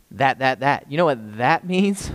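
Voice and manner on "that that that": that, that, that, each word pressed; hammered That. Shown as a demonstration. Preacher drilling a key word to the congregation, emphatic. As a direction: punch That on each repeat. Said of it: "Somebody say".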